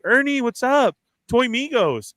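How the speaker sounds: high, lively mock call to a passerby; calling out greeting.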